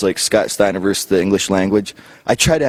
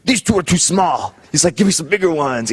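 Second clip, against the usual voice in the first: mock demanding Scotty; 7 semitones higher than usual. Scotty complaining to the server, high put-on voice. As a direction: demand bigger portions.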